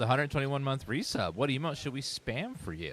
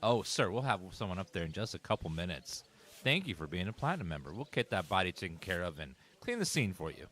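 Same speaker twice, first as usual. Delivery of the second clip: apologetic hotel clerk; 3 semitones lower than usual. Pretend.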